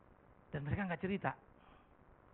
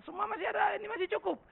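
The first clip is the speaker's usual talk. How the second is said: put-on children's reply. Children reassure their father.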